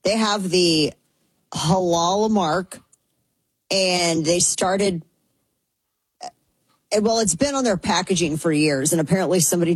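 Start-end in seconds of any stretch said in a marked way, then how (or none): none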